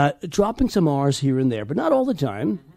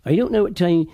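put-on old East Anglian settlers' accent. Shown as a demonstration. Coach shows how the Plymouth settlers sounded, East Anglian accent. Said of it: "they sounded like this".

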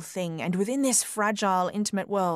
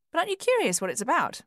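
eager question; 9 semitones higher, faster than usual. A narrator's reading. Eager wife question, quicker.

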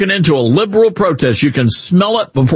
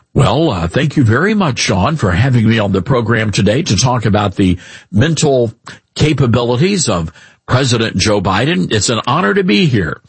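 a hint of a plain-spoken politician, lower; lightly voiced formal senator without the twang; measured, slightly lower polite interview guest; John Kennedy as Democrat; 4 semitones lower than usual. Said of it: "here's how he would talk when he was a Democrat".

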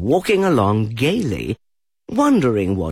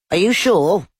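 higher, louder surprised question; higher, louder startled question from Rabbit; 10 semitones higher, 5 dB louder than usual. A narrator's reading. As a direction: sound really startled. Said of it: "still more surprised".

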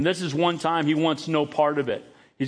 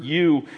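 "you" punched out a little louder; stress on YOU; 3 dB louder than usual. Shown as a demonstration. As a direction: land hard on "you". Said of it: "The emphasis on the word".

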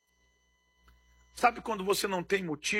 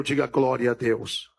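preacher's call; 7 semitones lower than usual. Real, not acted. Preacher asks the congregation for a glory, deep call. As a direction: ask the church to answer, deep and firm.

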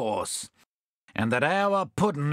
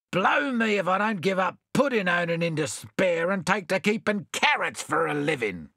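a touch of outrage, slightly raised; hammed-up indignation, lightly voiced; mildly enraged; 4 semitones higher than usual. Bill complaining to his friends, mildly enraged. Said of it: "cried Bill, enraged".

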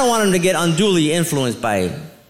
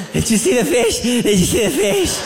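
mock excited; 4 semitones higher than usual. Excited snorkelers quoted.

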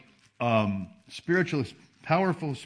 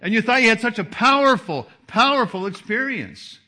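loud, high preaching peak; preaching at full force; 9 semitones higher, 8 dB louder than usual. Real, not acted. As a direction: drive the point home at full volume.

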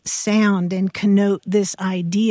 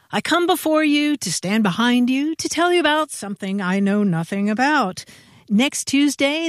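mock orator recitation; 2 semitones higher than usual. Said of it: "shared one that continues".

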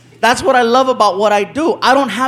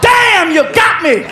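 caught-out surprise; 7 semitones higher, much slower than usual. Retold or imitated. Victim realizing the prank, shouting in surprise. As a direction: react like you've been pranked. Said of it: "he's like".

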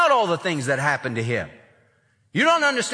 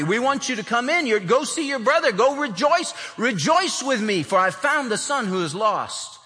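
father pleading a little higher, coaxing son inside; entreating father; 7 semitones higher than usual. Retold or imitated. Father begging his son to join the party, pleading. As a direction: coax him in, higher and eager. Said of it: "goes out to entreat him".

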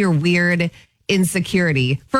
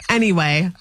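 whispered aside; 3 semitones lower than usual. Real, not acted. Moving on after being teased.

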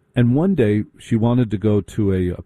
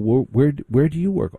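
higher, mock-polite prep; preppy questioner; 5 semitones higher than usual. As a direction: ask like a snob at a party. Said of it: "They go around the circle".

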